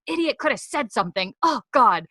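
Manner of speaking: mock irritation at a patient; annoyed. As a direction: imitate her fed-up grumble. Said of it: "so annoyed with him already".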